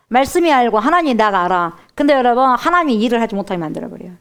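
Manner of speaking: normal talking voice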